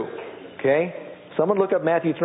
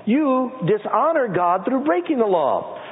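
raised, ringing scripture read; 2 semitones higher than usual. Acted. Preacher reading Romans to the church, raised and ringing. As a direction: proclaim it to the congregation.

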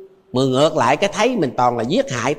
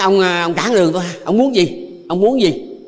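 mildly menacing, raised-pitch challenge; retold threat, pressing for an answer; threatening; 3 semitones higher than usual. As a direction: imitate someone picking a fight. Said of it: "Nó hăm vậy á".

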